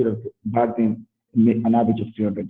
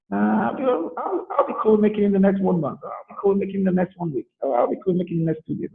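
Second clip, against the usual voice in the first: higher, eager prospect voice; excited prospect; 7 semitones higher than usual. Retold or imitated. Prospect answers the coach in a higher, eager voice. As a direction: play the prospect getting keener each line.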